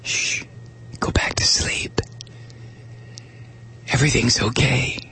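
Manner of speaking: whispered lullaby hush; whispering over a crib. Retold or imitated. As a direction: soothe like a parent at bedtime. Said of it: "Petroleum Institute ad says".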